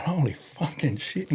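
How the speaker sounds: stunned in the ring; mock dread.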